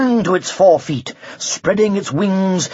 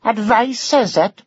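lilting Welsh sing-song, amused; a dragon teasing in a Welsh lilt; 4 semitones higher than usual. A narrator's reading. Dragon scoffs at the knight's advice, Welsh lilt. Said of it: "a lilting sing-song voice".

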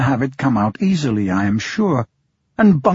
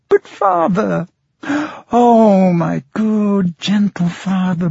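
put-on pleading girl; 5 semitones higher than usual. A narrator's reading. Blind girl pleading, crying.

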